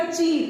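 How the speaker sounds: चीर said quickly, without holding the vowel; quick short demo. Shown as a demonstration. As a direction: clip चीर short, as the teacher shows. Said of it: "बहुत जल्दी बोल लेते हैं ना".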